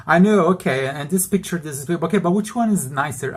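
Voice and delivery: excitedly pressing the concierge; eager questions. Retold or imitated. A customer eagerly pressing the concierge to choose. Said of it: "And I'm like".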